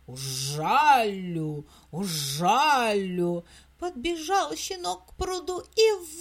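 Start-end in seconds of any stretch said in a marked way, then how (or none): 0.1-3.4 low, slow buzzing threat; buzzing bee voice. Acted. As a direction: drone it like a bee. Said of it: "летит и жужжит".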